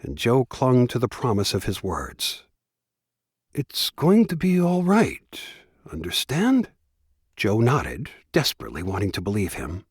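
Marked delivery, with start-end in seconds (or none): 3.5-6.7 reassuring. Acted. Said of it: "He sounded convincing and persuasive".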